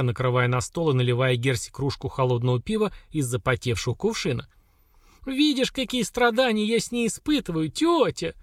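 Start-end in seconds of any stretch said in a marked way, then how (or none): 5.2-8.3 high, pitiful wail over running water; plaintive cry. A narrator's reading. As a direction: whine for sympathy, hamming it up. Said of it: "жалостным голосом крикнула Хагра". (жалостный крик, напоказ)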